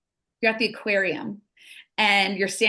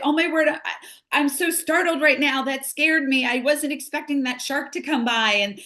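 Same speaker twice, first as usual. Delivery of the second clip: startled oh my word, pitched up; acted startle; 6 semitones higher than usual. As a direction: act out a fright at a passing shark. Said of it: "you're startled".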